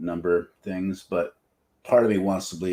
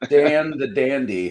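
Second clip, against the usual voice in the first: slow, raised announcement of a nickname; grand title; 5 semitones higher, slower than usual. Pretend. Crowning cohost Daniel with a silly nickname, slow grand announcing. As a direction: bestow the title on your cohost. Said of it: "How about that?".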